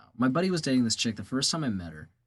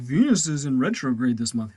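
mock horoscope voice; 3 dB louder than usual. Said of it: "It's always like".

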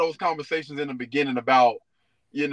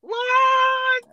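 shocked; 6 dB louder than usual. Real, not acted. Shocked at friend's claim.

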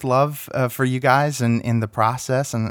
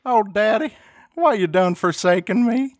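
hammed-up plea to the father; lightly voiced Jesus crying out on the cross; mock Sussex accent; 10 semitones higher than usual. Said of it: "Sussex accent".

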